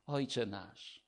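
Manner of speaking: Ojcze nasz said softly and intimately; whisper-close, like a child to its father; tender and soft. Retold or imitated. God teaching his child to pray, soft and tender. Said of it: "Pan Bóg mówi do ciebie".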